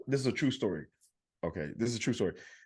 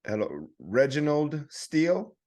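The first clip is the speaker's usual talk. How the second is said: slow, higher, careful reading of a name; scam caller voice; 5 semitones higher, slower than usual. Retold or imitated. Scam caller asks for the previous owner, slow and higher. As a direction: sound like a caller unsure of the name. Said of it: "This is scam call I get".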